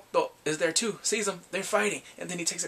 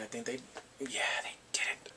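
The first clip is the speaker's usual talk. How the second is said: hushed, confidential aside; coy whisper; 4 semitones lower, 7 dB quieter than usual. Real, not acted. Recapper hinting at what the couple did, coy whisper. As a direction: whisper it like a naughty secret. Hints coyly at sex.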